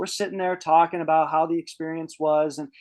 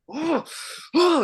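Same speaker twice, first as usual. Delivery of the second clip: sharp huffed "oh", psyching up; re-enacted nervous puffing; bracing exhale; 11 semitones higher than usual. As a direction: huff out breaths before the push. Bracing to push on arrow.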